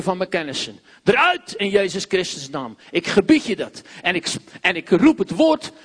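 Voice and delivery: loud preaching, full conviction; forceful deliverance prayer. Acted. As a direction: cast it out with authority. (krachtig bevrijdingsgebed)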